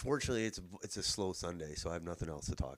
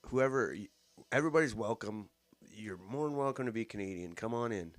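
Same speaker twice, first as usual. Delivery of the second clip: mock welcoming politician; mocking campaign message; 3 semitones higher than usual. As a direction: parody a campaign welcome, slightly raised pitch. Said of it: "that's his message throughout this campaign".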